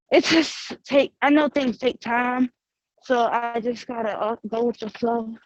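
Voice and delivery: breathless, catching air between phrases; out of breath. Real, not acted. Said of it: "I'm sorry, I'm out of breath".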